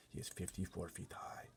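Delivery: soft unvoiced whisper; hushed, so no giant hears; said softly. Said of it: "the B F G said softly".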